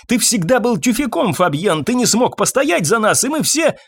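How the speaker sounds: high, scornful yelling; shouting insults. A narrator's reading. Irene yells at Fabien calling him a wimp, high. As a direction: lash out at him.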